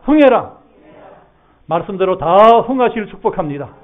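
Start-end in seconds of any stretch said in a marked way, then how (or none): 0.0-0.6 high, loud shout of 흥해라; call to repeat. Shown as a demonstration. Pastor leads the congregation in a loud, high shout. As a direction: belt it out for the congregation to echo. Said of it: "다 저 따라 해보세요".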